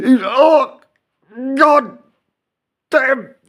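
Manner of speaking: high, loud, hammed-up ecstatic moaning; mock orgasm. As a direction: fake a loud climax with a laughing cry. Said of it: "Are you having an orgasm or a stroke".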